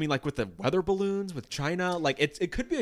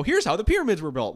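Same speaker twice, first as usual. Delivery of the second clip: conspiracy theorist voice; 6 semitones higher, 6 dB louder than usual. Retold or imitated.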